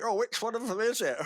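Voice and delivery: put-on lightly done northern English accent. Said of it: "I've always done a northern accent".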